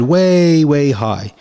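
WAY drawn out high, then "way high" easing down; emphatic stretch. Real, not acted. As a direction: stretch the first WAY long and high to show height. Stretching words to show great height.

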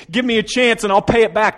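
high, loud pleading; begging. Acted. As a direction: cry out for mercy.

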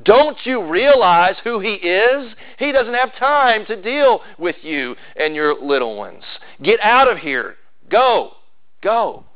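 mock indignant scolding, slow; scolding disciples. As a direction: shoo the parents off sternly. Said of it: "almost as they were saying".

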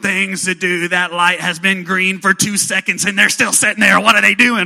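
mock road rage over a green light; impatient driver. An impatient driver fumes at the car ahead, loud and exasperated. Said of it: "you're like".

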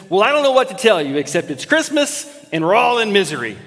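exasperated mother, quick and high; a fed-up mom sighing out the joke; quoting Ellen. Retold or imitated. Wife Ellen tells daughter Audrey, exasperated quick quote. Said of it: "and she says".

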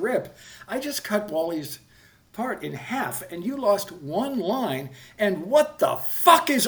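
reliving the moment he lost it; retold blow-up. Telling off the bullying actor, anger boiling over. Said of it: "I mean, I just blew up".

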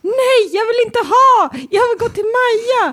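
put-on high whiny kid voice; high child begging to see Maja; imitating child whining. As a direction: whine it like a four-year-old. Child refusing burger, mimicked.

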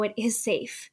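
soft whisper to yourself; whispered self-reassurance. Retold or imitated. Whispering to herself that being loved is safe. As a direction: breathe it out to calm yourself. Soothing herself while crying.

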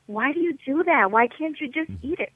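imitating a mildly embarrassed, pleading complaint; hushed-leaning mock embarrassment; embarrassed husband. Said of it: "he'd get so embarrassed".

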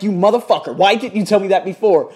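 loud, excited shout of relief; joyful mock outrage. To the teacher who hid good news, joyful loud shout. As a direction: yell it out, thrilled by the news. Overjoyed at hearing they passed.

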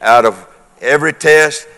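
building preacher's list, pitch held up; ringing declaration for the congregation to echo; leading congregational declaration. Real, not acted. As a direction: lead the room item by item. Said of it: "You can say that".

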